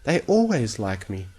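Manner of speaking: slow, unsure reply; Fluttershy answering slowly, sensing a trick. Acted. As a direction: drag the words out, half doubting. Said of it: "she said slowly".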